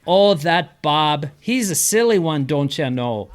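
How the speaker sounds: Minnesota phrase demo. Shown as a demonstration. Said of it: "And you say".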